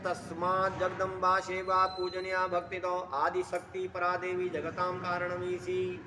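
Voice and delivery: shloka intoned on one level note; chant-like scripture quote, very even pitch; Sanskrit verse recitation. Acted. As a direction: recite the verse in a steady monotone.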